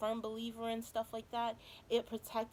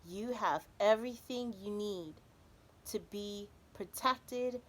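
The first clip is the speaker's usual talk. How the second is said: card reading. Acted. Quotes card text.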